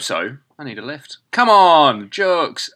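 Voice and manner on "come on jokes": put-on jokes in a northern English accent. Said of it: "why do you say jokes in a northern accent".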